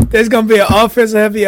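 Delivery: talking through a mouthful; words round a bite of food; mouth full. Real, not acted. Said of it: "your mouth full".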